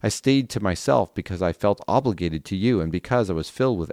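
earnest Bible passage reading voice; scripture reading. Acted. Reader to listeners, reading Jeremiah aloud as scripture. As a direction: read the prophet's lament aloud for listeners.

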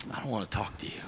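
a sulky, quiet refusal; sulky mutter. Retold or imitated. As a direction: mumble it like a sulking kid. Sulking refusal to God.

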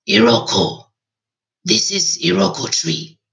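put-on old man's cracked, hushed voice. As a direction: let the voice crack like an old man. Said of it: "he said in a cracked voice".

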